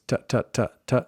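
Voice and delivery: quick English T taps like a drum; repeated T with tongue behind the teeth. Shown as a demonstration. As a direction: tap out T like a drum noise. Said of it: "like a drum noise".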